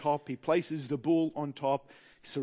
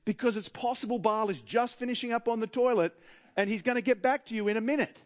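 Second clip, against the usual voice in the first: mock helpful call; 4 semitones higher than usual. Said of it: "calling out helpfully".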